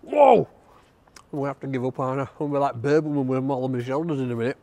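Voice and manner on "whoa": loud high startled whoa; real startled cry, higher and louder. Real, not acted. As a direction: flinch as the gull dives. Gull swoops at him.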